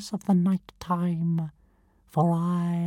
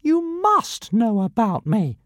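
higher, indignant piping voice; piping tiny dragon; 3 semitones higher, 4 dB louder than usual. Acted. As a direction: pipe it up insistently. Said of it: "piped Zigarastika".

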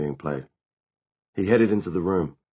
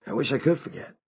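higher-pitched, bitter character voice; 8 semitones higher than usual. A narrator's reading. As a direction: wish it away bitterly. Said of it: "Simon said bitterly".

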